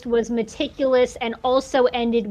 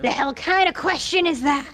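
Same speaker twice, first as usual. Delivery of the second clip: low gravel vigilante growl; 3 semitones higher than usual. Acted. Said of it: "I was doing a gravel".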